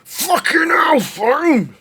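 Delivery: screaming high and loud in rage; furious shout. Real, not acted. Streamer screaming at the game in fury. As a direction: bellow it at the screen.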